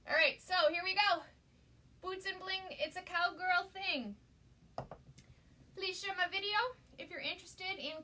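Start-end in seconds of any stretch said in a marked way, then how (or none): 2.0-4.2 sign read. Acted. Reading the sign again.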